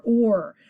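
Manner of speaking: or held as one r-colored syllable; vowel R sound. Shown as a demonstration. Teacher saying O R like the real word, held or. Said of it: "It's going to say or".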